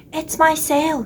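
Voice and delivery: upset goat. Acted. Goat on a boat tells George about its sail, loud and high. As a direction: bleat out the trouble like a fretful goat.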